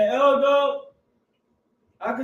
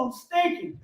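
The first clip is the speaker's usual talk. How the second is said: laughing, higher pitch; 7 semitones higher, 4 dB quieter than usual. Real, not acted. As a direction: chuckle it out, amused at himself. Laughing about smelling of horses.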